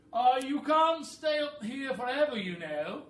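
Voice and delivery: high, loud bossy bird voice; a high, loud, clever-bird voice; roly-poly bird voice. Acted. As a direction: squawk it like a know-it-all bird. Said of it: "the rather clever roly-poly bird stated".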